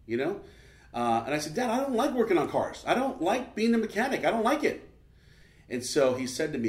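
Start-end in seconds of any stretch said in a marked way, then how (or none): 1.6-4.9 higher, insistent retold objection; retold defiant complaint. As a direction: protest to dad, higher-pitched. Retelling own defiant complaint to dad.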